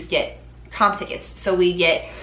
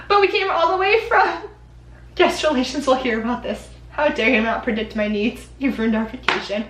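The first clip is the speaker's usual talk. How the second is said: lightly hammed-up entitled guest, high at the start; 4 semitones higher than usual. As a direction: play a mildly mock outraged tourist. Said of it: "mean guests".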